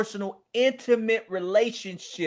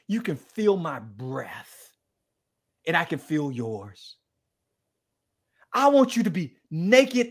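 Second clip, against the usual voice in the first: intimate plea. Retold or imitated. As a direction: lean in close and woo her gently. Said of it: "Tell me if this sounds familiar".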